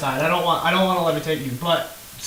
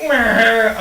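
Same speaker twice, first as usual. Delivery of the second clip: bored meh; 5 semitones higher, 7 dB louder than usual. Retold or imitated. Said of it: "Now I'm just like".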